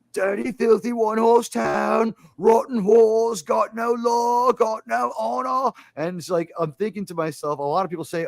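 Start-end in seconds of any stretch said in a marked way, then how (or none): 0.1-5.7 high, slow, stretched yelling with put-on accent; English Bob. Gunfighter carted out of town, high imitated yelling at townsfolk. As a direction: hurl each curse out high and drawn out. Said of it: "he starts yelling in his regular accent".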